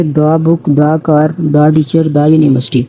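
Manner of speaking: each دا said "daa" before the noun. Shown as a demonstration. Teacher giving consonant examples, each دا said as "daa". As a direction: open "aa" vowel in every دا. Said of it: "دا کا sound use کریں گے".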